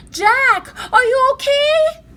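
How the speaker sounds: high, loud call from the treehouse. A narrator's reading. Annie calling down to her brother, loud and high. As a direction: call up to him, worried. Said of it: "Annie called".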